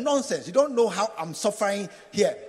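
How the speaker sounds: loud, indignant retort; telling off the pastor. Acted. Congregation tells the pastor off, loud and indignant. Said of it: "Tell him".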